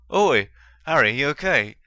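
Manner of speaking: loud, worried call; alarmed exclamation. A narrator's reading. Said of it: "exclaimed Dean".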